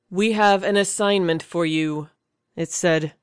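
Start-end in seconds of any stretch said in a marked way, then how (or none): 0.1-2.1 lightly voiced alien, stiff, even and lifeless; a hint of a cold machine reading orders; robotic and stale. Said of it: "its intonation robotic and stale".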